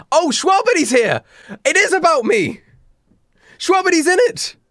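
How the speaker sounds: high-pitched excited exclamation; mock excitement. Reader spots Schwabity in the story, mock excited. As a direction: squeal it out in mock amazement.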